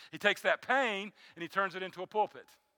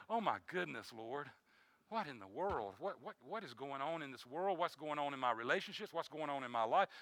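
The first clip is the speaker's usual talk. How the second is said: soft, lower weary sighing lament; hushed sighing plea; sighing to God; 3 semitones lower, 7 dB quieter than usual. Pretend. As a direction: breathe the questions out as a tired prayer. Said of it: "just almost sighing to God".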